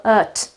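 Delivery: short unstressed "ut"; schwa and T. Shown as a demonstration. Teacher shows the noun suffix, short schwa "ut". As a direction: say "ut" as a schwa closed by T. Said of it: "the pronunciation is schwa and T".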